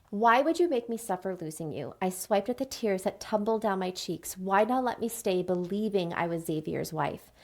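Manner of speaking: measured story narration with feeling; dramatic novel reading. Acted. Reading a book scene to listeners, measured dramatic narration. Reads novel passage aloud.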